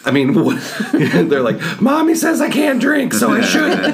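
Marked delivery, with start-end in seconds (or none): 1.8-3.9 put-on high, breathy little ghost child; squeaky, airy ghost voice while laughing. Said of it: "That's my ghost voice".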